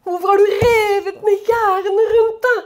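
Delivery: a lament, half-sobbing at the torn-down fences; crying plea. Acted. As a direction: voice breaking with tears. Preacher repeats verse, voice crying.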